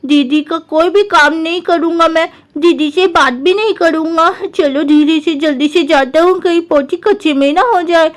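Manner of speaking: lightly voiced sulky boy, slightly low; a hint of a stubborn kid brother; sulky little brother Guddu.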